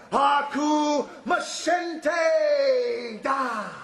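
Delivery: slow, drawn-out battle cry, only mildly shouted; mock war cry with long vowels; retold battle cry. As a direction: imitate a scream as a stretched-out chant. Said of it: "he was screaming to you".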